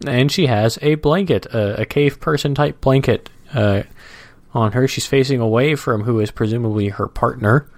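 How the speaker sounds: slow, measured reading aloud; comic strip read-aloud. Acted. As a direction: describe the cartoon at an easy pace.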